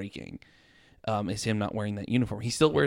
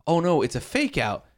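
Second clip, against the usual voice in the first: higher-pitched dismayed realization; acted-out disbelief; alarmed reaction; 6 semitones higher, 4 dB louder than usual. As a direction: relive the film-watcher's alarm. Acting own reaction to the film.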